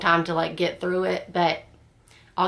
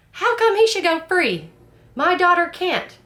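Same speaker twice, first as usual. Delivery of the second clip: much higher, louder mock yell; retold yell; 12 semitones higher, 5 dB louder than usual. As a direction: ham up the mother's outburst in court. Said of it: "she's like".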